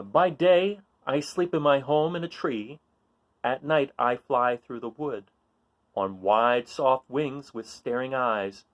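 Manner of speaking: lively read-aloud voice for a picture book; reading a riddle book aloud. A narrator's reading. Reading a riddle page to children, playful read-aloud.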